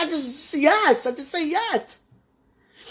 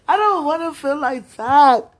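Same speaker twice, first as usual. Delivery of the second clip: louder, pained cry on "don't"; anguished cry; 6 dB louder than usual. Real, not acted. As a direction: push it out through the hurt. Crying out in distress.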